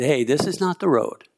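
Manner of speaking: casual, lightly acted paraphrase; offhand, as if steering them elsewhere; Jedi mind trick. Preacher retells Elijah fooling the enemy, casual mock mind trick. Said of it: "the Jedi mind trick".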